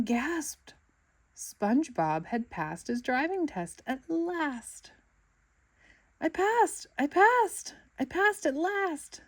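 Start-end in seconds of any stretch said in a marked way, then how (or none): 6.2-9.2 high, loud cries of triumph; yelling with joy. A narrator's reading. SpongeBob yelling to everyone that he passed. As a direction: shout the good news to the world. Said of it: "SpongeBob yelled to everyone".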